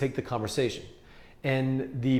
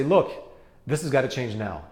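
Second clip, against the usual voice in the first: superior push. Retold or imitated. Real estate agent pressuring a stalled client, mildly superior. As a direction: lay down the law to the client. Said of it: "that's superior".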